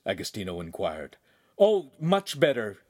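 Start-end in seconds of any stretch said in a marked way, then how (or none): 1.6-2.8 groaned reply. A narrator's reading. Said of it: "Handsome groaned".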